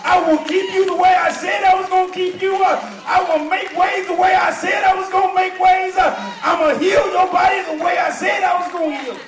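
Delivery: rhythmic pulpit crescendo, rising in pitch and volume; whooping preacher cadence with punched phrase endings; building to full-force preaching. Real, not acted. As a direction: start measured, build phrase by phrase to a driving shout.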